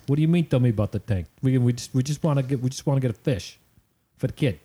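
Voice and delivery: lightly imitated Jersey guy; Jersey accent. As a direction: quote him in a mild Jersey accent. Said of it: "give my best Jersey accent".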